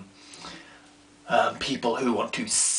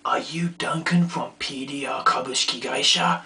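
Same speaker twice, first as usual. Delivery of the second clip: breathy voiceless whisper; whispered kid question. Retold or imitated. A kid at the door asking shyly, whispered. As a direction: ask it in a hushed whisper. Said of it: "one of them is like".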